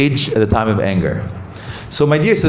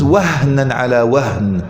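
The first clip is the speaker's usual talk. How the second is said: slow recitation; much slower than usual. Shown as a demonstration. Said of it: "the sound that it makes".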